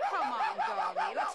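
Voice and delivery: high, coaxing call to the dog. Acted. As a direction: coax the wet dog inside with a laugh. Coaxing a half-drowned dog.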